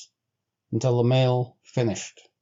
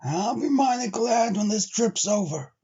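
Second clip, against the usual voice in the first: commiserating; 10 semitones higher than usual. Acted. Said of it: "looked at him commiseratingly and said".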